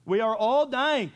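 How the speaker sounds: a loud, slow warning to the congregation; loud, slow proclamation. Shown as a demonstration. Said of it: "haven't been diagnosed yet".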